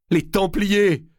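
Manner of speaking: high, bewildered outburst; distraught cry. A narrator's reading. Prince remembers the Templars' curse, a high distraught cry. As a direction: blurt it out, lost and shaken. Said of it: "l'air égaré".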